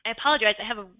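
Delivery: swollen tonsils voice, straining a little; talking through a sore throat. Real, not acted. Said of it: "I have a really sore throat today".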